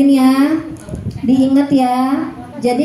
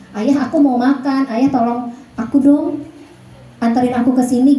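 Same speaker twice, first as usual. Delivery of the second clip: direct request. Shown as a demonstration. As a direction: plainly ask for what you want. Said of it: "To the point". (meminta langsung tanpa basa-basi)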